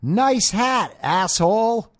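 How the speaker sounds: high mocking falsetto, snide; mocking the lady. Imitating the walking lady, high mocking insult. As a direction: mimic her as a shrill scold. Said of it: "And she goes".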